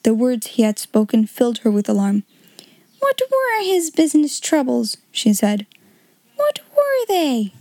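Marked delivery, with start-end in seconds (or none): 3.0-5.0 alarmed question. Acted. Minchin alarmed by the news. 6.4-7.5 much higher, slow, urgent question; anxious pressing. Acted. Minchin presses in alarm.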